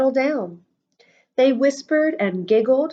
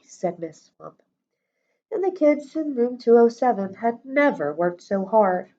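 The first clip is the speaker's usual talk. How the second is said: plain reading voice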